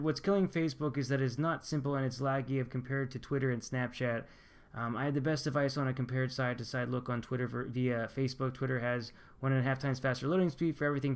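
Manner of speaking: ordinary delivery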